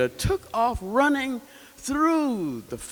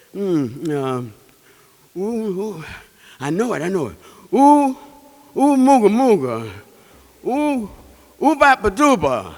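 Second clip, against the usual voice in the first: flustered loud guessing; 7 dB louder than usual. Acted. Cheetah struggles to recall name.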